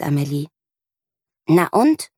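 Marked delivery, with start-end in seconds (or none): 1.5-2.1 growling. Acted. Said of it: "knurrt Mieke".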